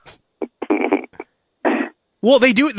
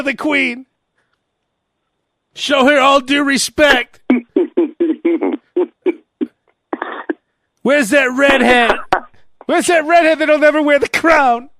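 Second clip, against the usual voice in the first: dark lord; 6 semitones higher, slower than usual. Pretend. King scolding Meghan.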